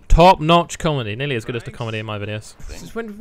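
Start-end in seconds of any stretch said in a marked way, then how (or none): 0.1-1.1 sarcastic praise. Shown as a demonstration. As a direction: sell "Top-notch comedy" with heavy sarcasm. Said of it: "Top-notch comedy, that".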